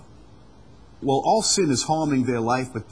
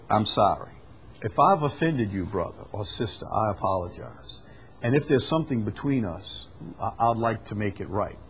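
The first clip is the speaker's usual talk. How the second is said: sincere apology; 3 semitones lower than usual. Shown as a demonstration. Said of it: "An apology is".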